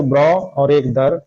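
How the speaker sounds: ब्रॉ and दर slowly, each its own part; syllable by syllable. Shown as a demonstration. Teacher dividing brother into parts, ब्रॉ and दर said slowly and separately. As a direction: set ब्रॉ apart from दर, unhurried. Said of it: "दो parts में बोल रहे हैं".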